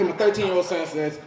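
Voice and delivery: normal talking voice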